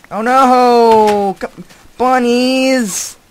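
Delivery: high, loud, drawn-out call; alarmed cry. Real, not acted. Player calls his escaping bunnies back, high alarmed calling.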